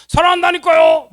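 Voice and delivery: very high, very loud acted outburst; angry shout. Husband insists he loves his wife, angry shout. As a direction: yell it in exasperated protest. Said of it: "그럼 막 화를 막 내".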